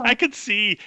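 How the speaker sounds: high, elated cry; overjoyed orc. Acted. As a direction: exclaim it in high-pitched delight. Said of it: "he's, like, so happy".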